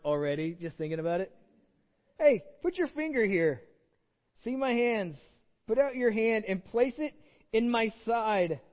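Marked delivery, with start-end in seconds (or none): 2.2-8.6 Jesus inviting Thomas. Acted.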